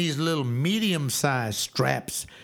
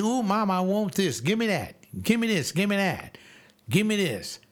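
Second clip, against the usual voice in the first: put-on high, nagging kid's demands; mock a spoiled kid begging; whining child; 5 semitones higher than usual. Preacher mocking a spoiled child at the mall, high whine.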